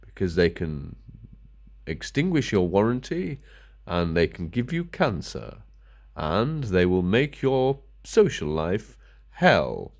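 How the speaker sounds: slow, mock-solemn official warning; mock corporate warning. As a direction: parody a stern company notice, lightly. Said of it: "Epson says".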